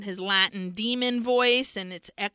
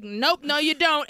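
higher, lightly voiced objection; mock refusal; 4 semitones higher, 4 dB louder than usual. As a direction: play the devil refusing, half in fun. Acts devil refusing to stop.

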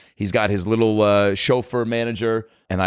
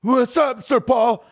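high, shouted fanboy hello; overexcited greeting; 13 semitones higher, much slower than usual. Retold or imitated. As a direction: blurt it out high, like a starstruck fan. Reenacts his overexcited greeting to idol.

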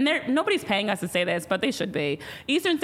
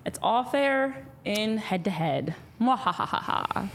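slow gloating villain line with cackle; slow theatrical villain menace; 2 semitones lower, slower than usual. Acted. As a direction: gloat like a cartoon villain, slowly. Host gloats after game.

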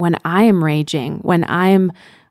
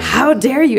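indignant parent; 6 semitones higher than usual. Retold or imitated. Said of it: "they would have just been like".

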